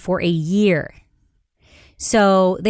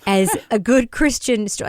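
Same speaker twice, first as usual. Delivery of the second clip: wry laughing mock quote; 3 semitones higher than usual. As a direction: say it with an ironic laugh. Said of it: "what does that mean".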